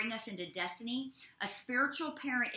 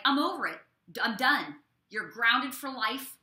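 louder, exasperated mock scolding; fed-up parent; 5 dB louder than usual. Parent scolding a child who acts a fool, louder fed-up scolding. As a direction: play the parent who has had enough. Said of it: "and they're like".

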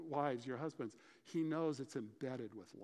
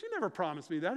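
retold angry retort; 3 semitones higher, 6 dB louder, faster than usual. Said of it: "And she got mad".

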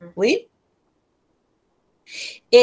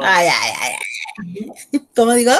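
laughing embarrassment; 4 semitones lower than usual. Real, not acted. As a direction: laugh it off, blushing. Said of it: "flustered by handsome guess". (risa avergonzada y lenta)

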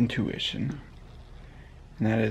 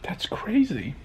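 breathy whisper aside; 5 semitones higher, slower than usual. Real, not acted. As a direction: say it under your breath. Aside after joke.

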